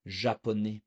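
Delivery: Japonais as zha-po-nay, said alone; French pronunciation. Shown as a demonstration. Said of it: "think of the word".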